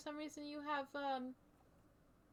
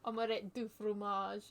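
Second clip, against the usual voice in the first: slow, lower, amateur French accent; attempted French accent; 4 semitones lower than usual. Shown as a demonstration. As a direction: have a go at a bad French accent. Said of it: "I'm gonna try and do, like, a French accent".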